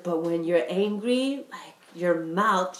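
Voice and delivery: slow, lightly voiced mom turning serious; a hint of mom's gentle warning; imitating mom. Mom explaining her daughter's anger, slow and gentle. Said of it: "And she's like".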